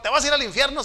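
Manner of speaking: imitando un regaño fuerte y agudo; suéltalo como sermón amenazante; amenaza burlona. Retold or imitated. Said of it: "Así dice la Biblia". (imitación de amenaza, más alta y fuerte)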